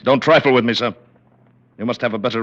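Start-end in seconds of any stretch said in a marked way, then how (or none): 0.0-0.9 a sharp, louder warning; stern rebuke. Acted. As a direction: put him firmly in his place. President rebukes the prince.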